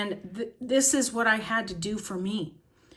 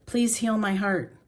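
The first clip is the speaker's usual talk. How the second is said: pleading prayer. Shown as a demonstration. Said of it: "I just keep saying".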